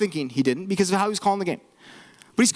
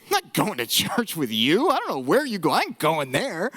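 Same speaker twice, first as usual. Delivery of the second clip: lightly acted incredulous refusal, mostly lower; mock refusal; 5 semitones lower than usual. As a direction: turn down the invitation in mock disbelief. Acted refusal of glum inviter's invitation.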